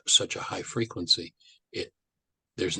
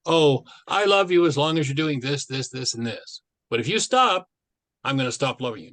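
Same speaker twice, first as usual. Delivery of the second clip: doting voice; 5 semitones higher, 5 dB louder than usual. Retold or imitated. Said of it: "What most people call love is actually approval".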